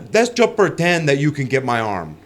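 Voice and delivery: mock Brazilian-accented trash talk. Imitating a jiu-jitsu opponent goading him, Brazilian accent. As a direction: taunt in a put-on Brazilian accent. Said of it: "involved with having an accent".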